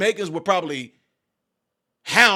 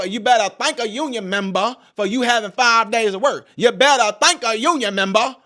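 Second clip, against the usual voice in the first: mock rally shout; 6 semitones higher, 7 dB louder than usual. Harris quote, shouted slogan.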